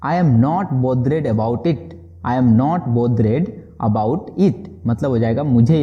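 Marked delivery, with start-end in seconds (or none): 0.1-1.9 very slow, word by word; slow model sentence. Shown as a demonstration. Teacher modelling the English phrase slowly for students. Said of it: "बोलेंगे". 2.3-4.5 slow restatement before explaining; slow repeat. Shown as a demonstration. Teacher repeating the phrase slowly before translating. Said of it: "बोलेंगे".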